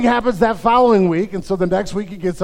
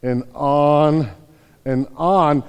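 slow and lower, each on drawn out; dragged-out on and on; 4 semitones lower, much slower than usual. Retold or imitated. Pastor mimicking Luke on Paul's endless preaching, slow and drawn out. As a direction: stretch every on so the preaching feels endless. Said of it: "he goes".

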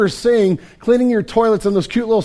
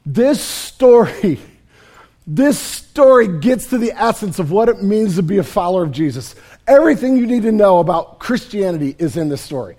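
ordinary delivery

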